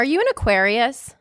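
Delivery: put-on Valley girl lilt, rising question. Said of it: "You said it like a Valley girl".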